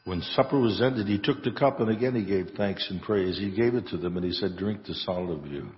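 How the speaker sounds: solemn, measured prayer voice; liturgical prayer. Acted. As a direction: recite it reverently at the altar. Priest recites Eucharistic prayer.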